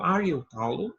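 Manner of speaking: "Are you Paulo?" lifting up at the end; rising question tune. Shown as a demonstration. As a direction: ask "Are you Paulo?" with a clear rise. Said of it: "o que vai mudar vai ser a entonação". (pergunta "Are you Paulo?" com entonação subindo no final)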